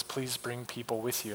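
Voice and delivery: low, near-whispered reading; deflated reading aloud. Retold or imitated. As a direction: read it out barely audibly. Reads sheet's painful first sentence, deflated.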